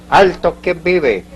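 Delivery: high, drawn-out sentry's challenge; grito de centinela. Retold or imitated. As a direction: call it out like a sentry halting someone. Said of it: "le gritaron". (grito de alto del centinela, alargado y agudo)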